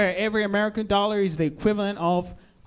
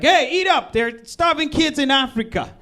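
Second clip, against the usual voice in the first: loud, scolding mock yell at the kids; mock parent yell; 4 semitones higher, 4 dB louder than usual. American parent yelling at kids to eat, loud mock yell. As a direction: holler it like a parent at the dinner table. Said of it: "American parents yelling at their kids".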